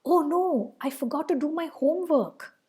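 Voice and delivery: a demonstrated cry of disappointment; strong disappointment. Shown as a demonstration. Teacher acting out forgotten homework, dismayed. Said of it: "to express strong emotion".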